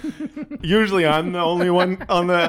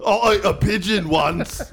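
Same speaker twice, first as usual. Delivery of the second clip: mock Tyson; 3 semitones higher than usual. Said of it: "Mike Tyson?".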